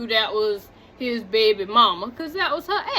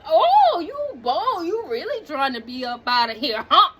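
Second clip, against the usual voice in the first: sassy disbelief; 3 semitones higher than usual. Retold or imitated. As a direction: call out his nerve with attitude. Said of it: "I was like".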